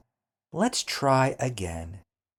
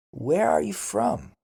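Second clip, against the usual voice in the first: much higher Where are you from? ending up; question tune; 10 semitones higher, 4 dB louder than usual. Shown as a demonstration. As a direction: show the rising question tune on from. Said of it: "voice usually goes up at the end".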